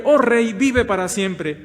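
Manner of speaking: Daniel answering the king. Acted. Preacher voicing Daniel to the king, loud and solemn. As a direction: lift it up as Daniel honouring the king. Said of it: "Daniel respondió al rey".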